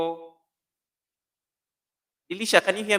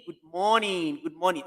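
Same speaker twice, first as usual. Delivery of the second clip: ordinary talk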